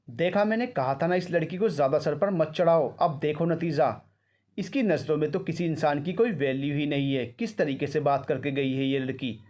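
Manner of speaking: mild stern complaint; a touch of grandmother's anger; angry. Acted. Grandmother blaming the mother, mildly angry. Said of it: "Anupama देवी ने गुस्से में कहा".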